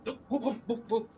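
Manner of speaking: high loud cheer; excited whooping. Real, not acted. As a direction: whoop it up in delight. Player cheering at found arrows.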